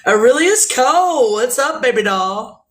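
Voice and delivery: high, loud sing-song hello; greeting a viewer by name, loud and high; playful greeting. Acted. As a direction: call out the name with a grin.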